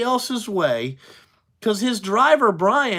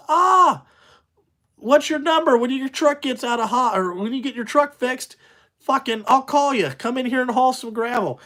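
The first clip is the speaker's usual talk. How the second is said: mock-friendly dispatcher calling out; hearty dispatcher; 5 semitones higher than usual. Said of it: "And they would be like this".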